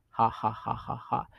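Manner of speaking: spoken, even "ha" laugh; imitated laughter. Shown as a demonstration. Teacher reading out Spanish written laughter, recited laugh. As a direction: sound out a written laugh without really laughing. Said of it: "people might laugh and they might sound".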